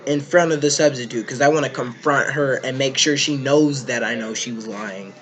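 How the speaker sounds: loud, pressing question to a friend; loud indignant kid demanding answers. Retold or imitated. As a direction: push hard, out to catch her lie. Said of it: "I'm like".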